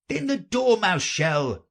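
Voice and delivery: high, lively call; crying out. A narrator's reading. Hatter and March Hare nominate the Dormouse, crying out. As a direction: call it out eagerly together. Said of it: "they both cried".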